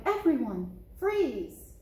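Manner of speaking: cried warning. Acted.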